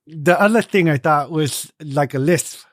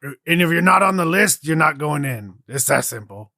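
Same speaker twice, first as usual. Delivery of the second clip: stubborn jutting jaw guard. Pretend. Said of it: "Stick out your jaw and just start talking".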